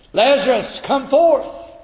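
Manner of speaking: high ringing call of Lazarus out of the tomb; loud command. Acted. Preacher voicing Jesus calling Lazarus from the grave, high and loud. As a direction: cry it out as a command to the dead.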